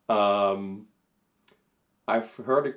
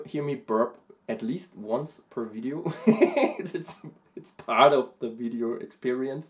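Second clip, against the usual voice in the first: usual speaking voice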